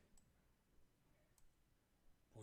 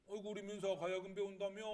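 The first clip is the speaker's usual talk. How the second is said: lightly voiced grandfather, higher and louder; 4 semitones higher, 6 dB louder than usual. Grandfather to grandchild learning gayageum, lightly acted grandfather. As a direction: greet the grandchild with loud interest. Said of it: "라고 말씀하셨는데".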